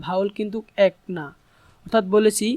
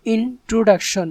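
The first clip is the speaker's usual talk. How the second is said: "ইন্ট্রোডাকশন" slowed, divided into its syllables; 3 dB louder, slower than usual. Shown as a demonstration. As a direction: sound out "ইন্ট্রোডাকশন" slowly in parts. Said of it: "এগুলোকে ভাগ করব".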